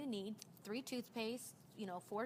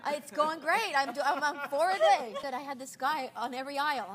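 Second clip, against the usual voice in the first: laughing; 5 semitones higher, 15 dB louder than usual. Real, not acted. Still laughing, telling lollipop story.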